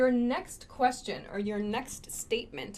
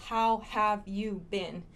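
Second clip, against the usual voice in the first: How have you been, every word full and slow; full, slow form; 2 semitones lower than usual. Shown as a demonstration. Teacher showing the unreduced form. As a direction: say each word separately. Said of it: "most native speakers don't say".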